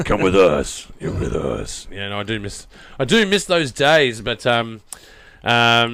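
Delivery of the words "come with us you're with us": low, creepy, horrifying movie-villain voice. Telling others about impersonating a movie character, the speaker does that impression. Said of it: "it's just a voice".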